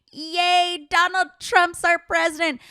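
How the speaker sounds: high, loud, sarcastic cheering voice; sarcastic impression of an overexcited supporter, pitched high; mock cheer. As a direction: ham up a giddy fan you find ridiculous. Mocking cheering Trump supporters.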